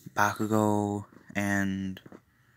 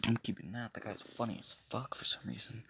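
much softer, to oneself; quiet aside; 13 dB quieter than usual. Real, not acted. Side remark to self about recording.

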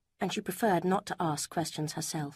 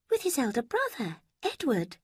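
a higher, lighter voice for Lucy; Lucy, higher voiced; 7 semitones higher than usual. A narrator's reading. Lucy quizzing Eleanor about Mrs Ferrars, higher voice. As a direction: lift the pitch for the young woman Lucy.

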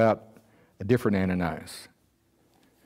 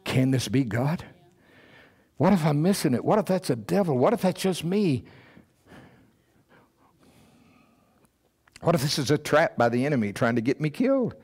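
anxious doubt; 5 semitones higher than usual. Retold or imitated. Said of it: "He had to be thinking like we think".

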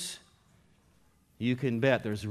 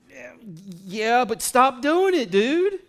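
higher, louder exasperated comeback; fed-up retort; 11 semitones higher, 10 dB louder, slower than usual. Retold or imitated. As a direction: throw it back, fed up. Exasperated reply to serial apologizer.

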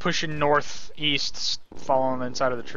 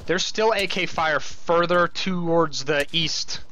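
man down shout; 2 semitones higher, slower than usual. Real, not acted. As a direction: shout it out slowly under fire. Firefight, calling out enemy fire.

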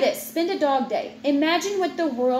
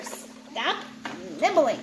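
hushed stop; 5 dB quieter, slower than usual. Real, not acted. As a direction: whisper a quick stop. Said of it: "but stop it".

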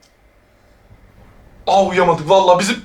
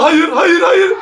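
panicked no; 4 semitones higher, slower than usual. Real, not acted. Scared by ghost in horror game.

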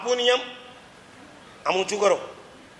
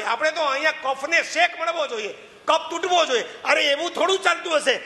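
put-on higher insistent questioning of a young monk; pressing disciple; 7 semitones higher than usual. A hint of a disciple pressing his guru, higher and insistent. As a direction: push the guru for an honest answer.

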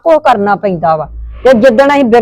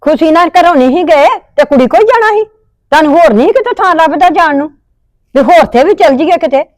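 higher-pitched indignant scolding; angry scolding; 6 semitones higher than usual. Acted. Mother scolds her daughter for leaving home, angry and higher. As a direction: let the grievance spill out, pitched up.

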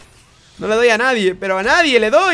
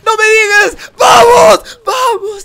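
high disbelief building to a yell; elated shouting; 9 semitones higher, 9 dB louder than usual. Real, not acted. Gamer winning after a huge comeback, elated shouting. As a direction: build to a screamed victory cheer.

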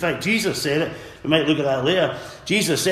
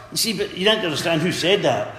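ordinary delivery

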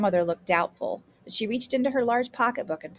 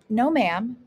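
earnest, higher and louder denial; honest; 5 semitones higher, 7 dB louder than usual. A narrator's reading. Grandson denying he is playing grandmother, honest. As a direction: protest sincerely. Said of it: "Ramik replied honestly".

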